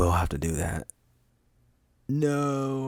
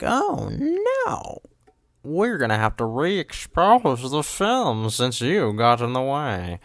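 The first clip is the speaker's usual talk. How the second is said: high, slow put-on fussy filmmaker voice; mock a worried film crew in a silly voice; mock old film crew; 5 semitones higher, 3 dB louder, slower than usual. Mocking an outdated film worker, squeaky and slow. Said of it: "it's like".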